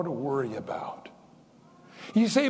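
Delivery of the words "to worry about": whispered ending. Real, not acted. Sermon aside, trailing.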